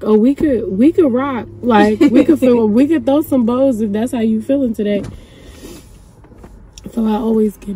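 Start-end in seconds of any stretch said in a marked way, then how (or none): 0.0-5.0 tough dog voice. Retold or imitated. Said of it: "Gunner like".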